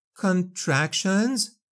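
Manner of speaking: said on a breath. Gaping in horror at Anara's words, a woman speaks, breathed. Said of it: "she breathed".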